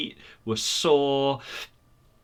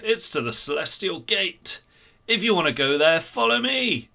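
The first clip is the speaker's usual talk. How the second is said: confident stranger; 6 semitones higher, 4 dB louder than usual. A narrator's reading. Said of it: "looked really confident".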